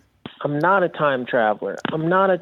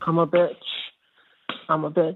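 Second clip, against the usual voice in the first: put-on bitchy girl voice; 4 semitones higher, faster than usual. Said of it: "Hi, bitchy girl voice".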